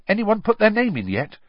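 high, eager question. A narrator's reading. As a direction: ask it bursting with eagerness. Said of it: "Ron asked a third-year girl eagerly".

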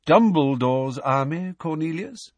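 with a smile, lifting at the end; smiling. A narrator's reading. Dumbledore showing Fudge the list, smiling and unruffled. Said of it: "still smiling as he waved".

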